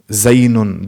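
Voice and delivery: "Zaynun." said as the mistaken nunated form; mock the mistake; wrong form. Shown as a demonstration. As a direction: demonstrate the error "Zaynun.". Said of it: "There's no zaynun".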